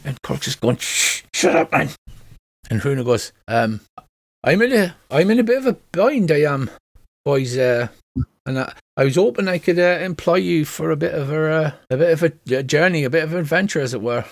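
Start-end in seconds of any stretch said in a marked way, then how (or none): 0.8-1.9 whispered shushing of a brother; acted, impatient whispered hush. Brother hushes Stone. 4.4-14.2 lilting put-on Welsh dwarf; hesitant pitch in a Welsh singsong; Welsh accent. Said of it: "I should be doing a Welsh accent".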